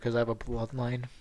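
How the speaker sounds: ordinary talk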